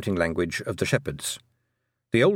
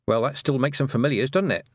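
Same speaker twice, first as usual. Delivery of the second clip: annoyed retort; 4 semitones higher than usual. Acted. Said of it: "Tiffany retorted, feeling annoyed".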